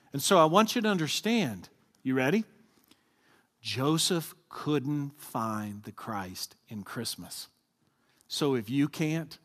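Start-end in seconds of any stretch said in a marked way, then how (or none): 3.6-7.5 slow emphatic point. Real, not acted. Key line delivered slowly.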